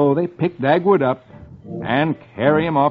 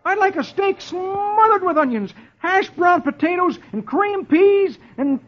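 much higher, fast eager husband voice; a starving husband pleading for supper; Dagwood on the phone. Acted. Dagwood on the phone begging Blondie for supper, high and eager.

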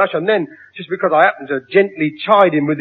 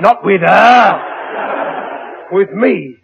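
indignant shout; 3 semitones higher, much slower than usual. Acted. Father demands the handshake himself.

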